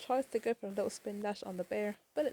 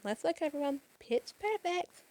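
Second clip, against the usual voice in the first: delighted praise; 6 semitones higher than usual. Retold or imitated. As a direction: stretch out pitch perfect with pride. Tails praising the singing flickies.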